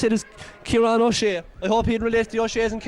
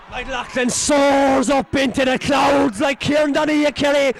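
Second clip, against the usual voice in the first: excited shout; slower than usual. Real, not acted. Excited live commentary on a catch.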